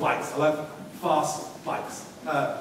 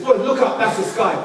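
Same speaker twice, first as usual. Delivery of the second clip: mum's voice; 6 semitones higher, 7 dB louder than usual. Retold or imitated. Mother voiced in the story.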